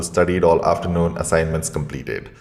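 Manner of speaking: clipped robot voice. Shown as a demonstration. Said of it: "See, I sound like a robot".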